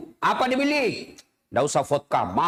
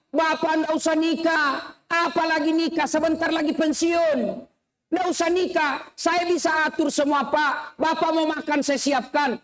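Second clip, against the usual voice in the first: put-on higher, coaxing child's plea; pleading child; 7 semitones higher than usual. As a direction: coax father like a daughter. Child pleading with old father. (anak membujuk ayahnya, suara tinggi)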